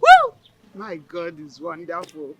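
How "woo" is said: joyful shout. Acted. Grandmother hears son's wife pregnant.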